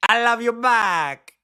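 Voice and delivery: put-on loud, high, stretched-out Latinx accent; mock Latinx accent. Host mocking what a candidate nearly said, hammed-up Latinx accent. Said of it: "I love her Latinx accent".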